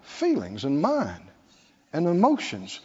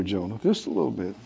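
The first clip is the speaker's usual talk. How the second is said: gentle God; 13 semitones lower, 5 dB quieter, faster than usual. Acted. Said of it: "the Lord said".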